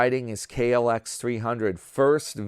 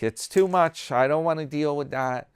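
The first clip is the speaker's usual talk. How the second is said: put-on high, louder complaining girlfriend; mocking his girlfriend's dislike of Miami, higher and louder; imitating Leslie; 5 semitones higher, 3 dB louder than usual. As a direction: whine about the heat, pitched up. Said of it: "She's like".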